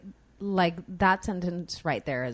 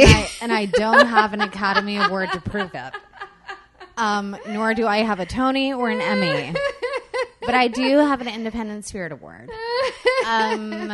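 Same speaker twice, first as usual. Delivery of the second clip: laughing; 2 semitones higher, 7 dB louder than usual. Real, not acted. Joking about awards while laughing.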